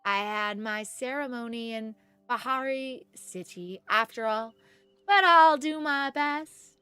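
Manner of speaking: slow, lightly voiced character reading; Viridian game voice. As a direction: take it slowly as the game character, a bit unsure. Reads Viridian's game lines.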